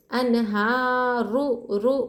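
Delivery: slow, रु said thick and full; teacher models heavy ra. Shown as a demonstration. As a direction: read अनहारु with a heavy rolled रु. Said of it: "रुआ को मोटा पढ़ेंगे".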